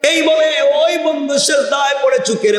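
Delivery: high, sustained chanting sermon voice; melodic preaching. A narrator's reading. Preacher telling a crowd of three trapped friends, melodic preaching.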